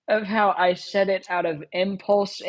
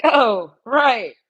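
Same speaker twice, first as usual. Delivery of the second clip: mock betrayed outburst; 5 semitones higher than usual. Rebels turning on the player, hammed-up angry outburst. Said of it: "they're like".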